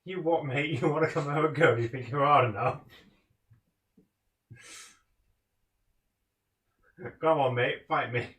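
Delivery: lightly voiced lad squaring up; a hint of pub brawler; mock British hard man. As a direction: fake tough British challenge. Mock British lad picking fight.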